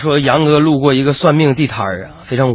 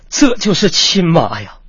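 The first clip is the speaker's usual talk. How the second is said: slow, drawn-out gratitude; deeply moved; 3 semitones higher, slower than usual. Acted. Son thanking mother for the apple, deeply moved. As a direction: draw it out, touched to the heart. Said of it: "心里边别提多感动了".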